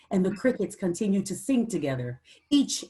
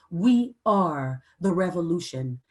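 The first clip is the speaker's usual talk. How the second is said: call to answer; 2 semitones lower than usual. Shown as a demonstration. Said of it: "I want you to answer".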